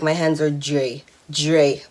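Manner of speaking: light Bajan accent, DRY as "dray". Shown as a demonstration. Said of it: "the only thing I can say really well in a Bajan accent".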